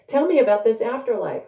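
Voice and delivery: high, lightly projected call. A narrator's reading. Haru asking the visitor from the study, calling out. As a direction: mildly call through to the next room. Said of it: "Haru calls out".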